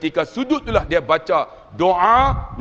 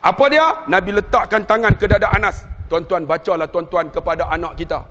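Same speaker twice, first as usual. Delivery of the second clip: normal talking voice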